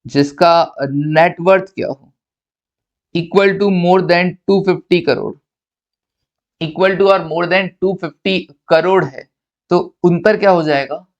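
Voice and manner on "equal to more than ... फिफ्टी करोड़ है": slow, spaced-out dictation pace; unhurried note-taking pace. Shown as a demonstration. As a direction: read each word out slowly so students can write it down. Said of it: "dictating notes slowly".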